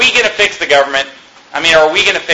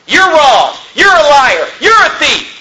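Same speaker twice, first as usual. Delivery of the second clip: mock rebuke; 10 semitones higher, 4 dB louder, slower than usual. Nehemiah rebuking nobles.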